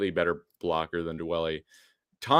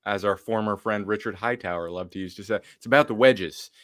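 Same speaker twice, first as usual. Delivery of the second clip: mock Southern accent. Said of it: "why I gave him a Southern accent".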